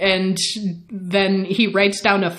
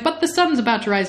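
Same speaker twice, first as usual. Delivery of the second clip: higher, quick acted protest; worried objection; 4 semitones higher, much faster than usual. Louis protests about the sunrise, quick mock worry. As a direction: object in a hurry, mildly worried.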